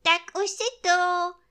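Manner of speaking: high, loud bear call; exclaiming. A narrator's reading. Bear hails friend back with umbrella, high loud exclamation. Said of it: "zvolal Medvídek Pů".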